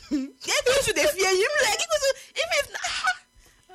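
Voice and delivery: high laughing rant. Real, not acted. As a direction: laugh through the words. Laughing while ranting.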